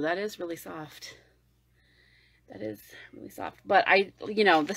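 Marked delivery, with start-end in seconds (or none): 0.0-1.2 soft mock reviewer. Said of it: "they're like". 2.5-3.6 softer repeat. Retold or imitated. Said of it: "they're like".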